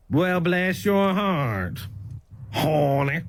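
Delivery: sweet on top, insult underneath; drawn-out heifer tone; snide Southern. Shown as a demonstration. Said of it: "if it kinda sound like this".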